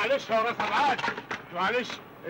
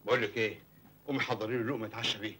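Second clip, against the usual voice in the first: low quiet request; 12 semitones lower, 6 dB quieter, faster than usual. Acted. Husband quietly asks wife.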